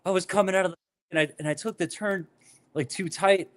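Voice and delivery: high-pitched, mildly weepy retold excuse; pleading confession, half acted; mock tearful. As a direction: imitate a teary explanation, lightly. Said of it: "in tears".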